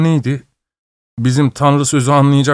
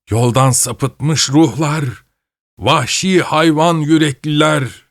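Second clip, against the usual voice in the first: slow, higher curse called after him; 5 semitones higher, slower than usual. Acted. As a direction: hurl it like a curse at his back, slowly. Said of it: "bir lanet duası gibi".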